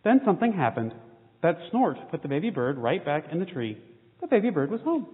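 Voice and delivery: lively storybook reading with small character voices; reading to children. A narrator's reading. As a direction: read the picture book to the kids with gentle expression. Reads children's picture book aloud.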